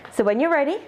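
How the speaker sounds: slightly winded, breathy instructions; talking while catching breath. Real, not acted. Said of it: "I don't know why I'm so out of breath".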